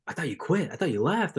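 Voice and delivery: high, mock-incredulous voice; retold surprise. Gym people after the speaker's vacation, imitated surprise. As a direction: swoop up, imitating surprised friends. Others reacting to absence, acted.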